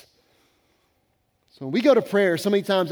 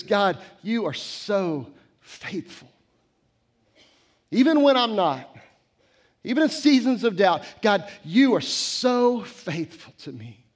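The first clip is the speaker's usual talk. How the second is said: prayerful confession. Shown as a demonstration. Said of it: "For me this week is".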